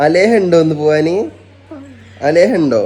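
calling out. Real, not acted. Calling to child Aleha to come. (കുട്ടിയെ ഉറക്കെ വിളിച്ചു ചോദിക്കുന്നു)

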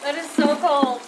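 freezing after an ice dump; shocked by ice water. Real, not acted. Ice water just dumped on her.

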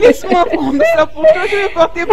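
high, laughing eagerness; jubilant. Acted. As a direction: fuss gleefully over a friend. Fussing joyfully over future queen.

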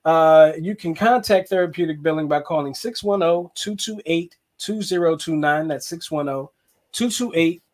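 lightly done puppet frog voice; Kermit the Frog voice. Acted. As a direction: read the ad as a mild Kermit. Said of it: "Spencer Kermit the Frog voice on".

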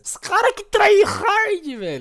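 voz zoeira aguda. Pretend. Intro voice bit, high far.

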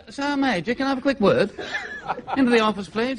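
a hint of a courteous colonel. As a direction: politely summon a subordinate officer. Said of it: "The colonel said".

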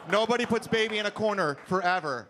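ordinary delivery

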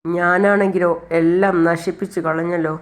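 slow, mildly tearful lament; a touch of weeping, drawn out slowly; understated tearful plea, slow; crying while speaking. Acted. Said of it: "Chandrika വീണ്ടും കരഞ്ഞുകൊണ്ട് പറയാണ്".

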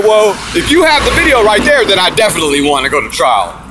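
a touch of heated excitement at the public defender; excited. Retold or imitated. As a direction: fire it back eagerly, almost sounding mad. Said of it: "I don't know why you're getting mad at me".

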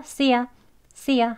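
YA replacing you in "see ya"; reduced "see ya", no oo; casual "ya". Shown as a demonstration. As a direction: say "see ya" with a short weak vowel. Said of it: "약간 이야 하는 발음으로".

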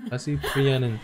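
Tazzy Trianon with the R in Trianon rolled, half laughing; laughing attempt at rolled R's in Tazzy Trianon. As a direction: playfully mimic Tazzy Trianon, trilling the R in Trianon. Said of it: "Roll the R's in our pronunciation".

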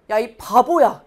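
put-on loud child's taunt; kid yelling insult. Mother retelling her son yelling at his twin brother, loud taunt. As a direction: yell it like a bratty seven-year-old. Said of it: "이러는 거예요".

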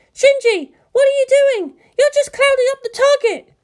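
high, sharp woman's voice; Misato voice. A narrator's reading. Misato scolding Shinji over the link, high and sharp. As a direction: snap at him from the command room. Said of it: "Misato scolding over link".

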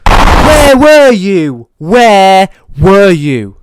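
high, slow, loud mock sing-song; sing-song calling. Streamer calling into the dark for the doll, high and sing-song. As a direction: coax the doll out in a drawn-out call.

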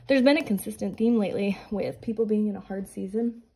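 slightly winded, breathy pregnant talk; talking a little out of breath. Real, not acted. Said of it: "I sound like I'm out of breath".

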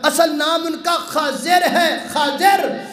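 high, ringing correction; emphatic proclamation. Real, not acted. Preacher sets the congregation straight on the name, high emphatic voice.

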